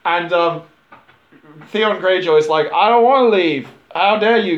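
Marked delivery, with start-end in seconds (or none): 2.7-4.6 a touch louder and higher, indignant brat; mock outrage. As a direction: play the offended punk, half-hammed. Mobster son defies the shop owner.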